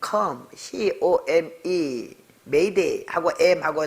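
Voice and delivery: very slow letter by letter; spelling it out. Retold or imitated. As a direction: spell "C O M E" one letter at a time. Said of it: "스페링을 받아서".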